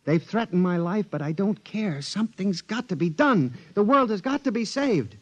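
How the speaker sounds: a nervous clerk begging his boss to listen; frantic pleading. Acted. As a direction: plead desperately to be believed. Gurney frantically warning Hawk.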